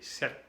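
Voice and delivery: "sept" said like "set"; French "sept" as one syllable, set; P silent, T sounded. Shown as a demonstration. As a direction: end "sept" on a crisp t with no p. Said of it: "hace una T".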